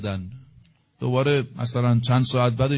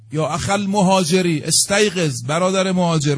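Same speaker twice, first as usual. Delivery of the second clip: raised urgent call in Arabic then Persian, higher pitch; retold alarm call, moderately raised; 4 semitones higher than usual. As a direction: keep shouting to wake him. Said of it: "داد زد".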